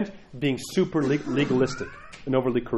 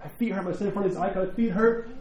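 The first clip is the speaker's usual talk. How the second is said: quiet prayer; 3 semitones higher, 6 dB quieter than usual. Retold or imitated. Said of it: "Tell God".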